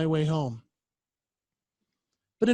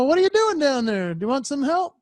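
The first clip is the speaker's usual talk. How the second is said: calling to a dog; 6 semitones higher than usual. Retold or imitated.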